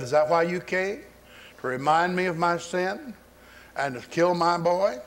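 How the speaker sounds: mildly anguished accusing question; retold grief. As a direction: lightly act out a grieving mother's challenge. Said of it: "She's beside herself with grief".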